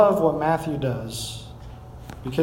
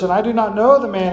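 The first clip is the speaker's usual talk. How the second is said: louder, higher cursed denial; cursing denial; 5 semitones higher, 7 dB louder, faster than usual. A narrator's reading. Peter cursing at the bystander, loud and forceful. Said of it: "Peter's response is to curse".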